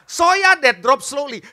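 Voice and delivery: slow, deliberate imitation; halting improvised English. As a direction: stretch out the mangled English phrase. Repeats friend's broken English phrase.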